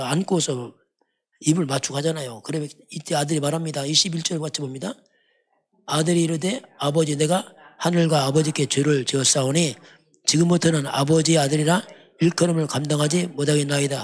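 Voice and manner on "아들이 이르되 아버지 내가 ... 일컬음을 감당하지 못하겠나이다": measured, solemn Bible reading; formal pulpit reading of the son's plea; scripture reading. Acted. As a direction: read the verse out to the congregation. Reads the son's words from scripture.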